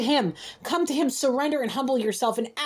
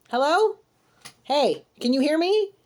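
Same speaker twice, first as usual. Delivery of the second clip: exasperated calling out; 3 semitones higher than usual. Acted. Calling out to unresponsive person.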